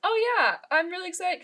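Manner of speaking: high, loud re-enacted eagerness; retold excitement. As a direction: gush it high, quoting yourself. Quotes own eagerness to professor.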